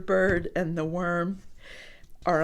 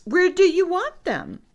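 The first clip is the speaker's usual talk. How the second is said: lightly voiced Piggy; 9 semitones higher, 5 dB louder than usual. Piggy asks.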